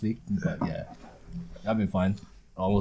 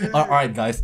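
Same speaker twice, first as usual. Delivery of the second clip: shy nervous mumble. Retold or imitated. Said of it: "You sounded like a, like, a shy kid trying to".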